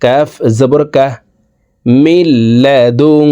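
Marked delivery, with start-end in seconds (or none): 2.0-3.3 মিল্লাদুঙ্কা with the ন hidden in the nose, held before ক; hidden nasal ghunna. Shown as a demonstration. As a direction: hum the নুন through the nose, slowly. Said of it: "নাকের ভিতরে লুকাইয়া গুন্নার সহিত পড়ব". (নাকের ভিতরে গুন্না)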